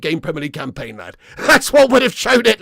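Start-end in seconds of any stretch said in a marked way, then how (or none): 1.4-2.6 loud, laughing, higher; real laughing emphasis; laughing rant. Real, not acted. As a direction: laugh through the point as you hammer it home. Ranting about Ten Hag.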